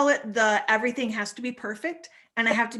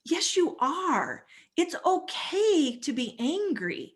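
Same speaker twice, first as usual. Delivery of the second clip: reassuring coach; 5 semitones higher, slower than usual. Retold or imitated. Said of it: "And I'm like".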